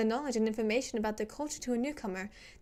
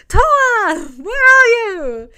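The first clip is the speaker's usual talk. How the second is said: high loud calling out; shouting; 9 semitones higher, 15 dB louder, slower than usual. Acted. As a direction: yell for him, panicked. Character shouting for Toa.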